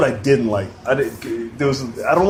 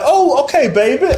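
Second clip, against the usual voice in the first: high, softened teasing; suddenly friendly after the mix-up; sweet security lady; 10 semitones higher than usual. Retold or imitated. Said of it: "She's like".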